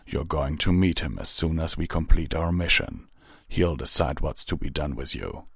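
lightly voiced restrained captain; measured captain. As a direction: inform the newcomer in a contained voice. Vanguard's figure voice.

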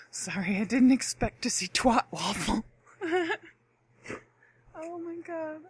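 laughing through words. Real, not acted. Apologizing to listeners for twat waffle, laughing. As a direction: talk through real laughter.

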